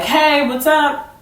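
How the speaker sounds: drawn-out, high-pitched hello; friendly greeting. Retold or imitated. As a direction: stretch out a friendly, casual greeting. Her friendly text read out.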